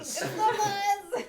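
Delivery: giggling mobster voice; laughing. Pretend. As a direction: laugh through a gangster line. Echoing gangster line laughing.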